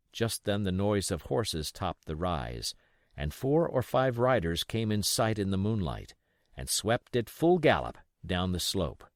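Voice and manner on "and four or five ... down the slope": usual speaking voice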